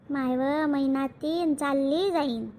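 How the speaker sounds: low, slow, heavy-hearted; tearful lament. Acted. Mother grieving that her daughter will soon leave, tearful. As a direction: lament it slowly, near tears. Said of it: "आ, रडू नका तर".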